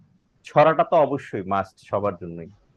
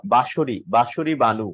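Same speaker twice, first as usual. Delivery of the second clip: calling out; slower than usual. Real, not acted. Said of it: "calling student name".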